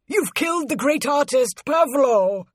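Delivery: high-pitched, anguished accusation; horrified shout. A narrator's reading. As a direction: cry out in outrage at the killer. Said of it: "shouted Luton".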